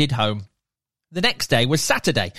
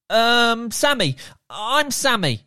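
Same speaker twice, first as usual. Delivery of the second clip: put-on shy boy; 7 semitones higher than usual. Sammy introduces himself shyly.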